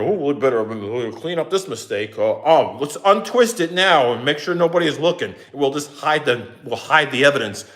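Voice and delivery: low, hushed mock-conspiratorial crew; lightly voiced sneaky crew covering it up; mock sneaky workers. Mocking the crew hiding their mistake, low and sneaky.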